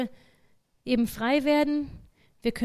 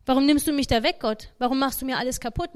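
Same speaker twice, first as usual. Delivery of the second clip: louder, pleading why, with a hint of protest; mock complaint to God; 5 dB louder than usual. Believer complaining to God about a lost path, acted protest. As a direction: play the hurt believer crying out to God.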